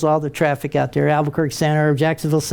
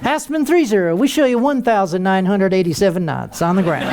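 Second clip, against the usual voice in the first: same controller voice. Retold or imitated. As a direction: keep the unimpressed controller calm. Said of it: "it had to be that same voice".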